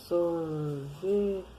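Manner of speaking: "Sorvete" with tongue curled back on the R. Shown as a demonstration. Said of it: "a gente dobra a língua". ("Sorvete" com R de língua dobrada)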